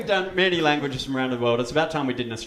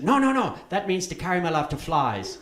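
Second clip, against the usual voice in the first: correcting translator; 4 semitones higher than usual. Retold or imitated. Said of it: "And she said".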